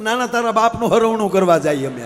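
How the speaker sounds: shouted comic snap back; mock angry retort. Snapping back at the neighbour who asks, loud mock anger. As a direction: bark it back at the nosy neighbour.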